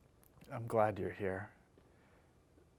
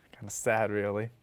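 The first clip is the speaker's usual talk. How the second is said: half-hearted laugh; 4 dB louder than usual. Acted. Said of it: "They both laugh half-hearted".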